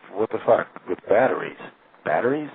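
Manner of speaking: mock incredulous questioning; lightly scoffing, retold disbelief; sarcastic. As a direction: imitate her sarcasm, last word rising high. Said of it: "like, being sarcastic".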